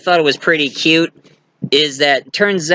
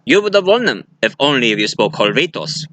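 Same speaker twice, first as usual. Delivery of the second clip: smug villain; 2 semitones lower than usual. Retold or imitated. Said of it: "the bad guy said".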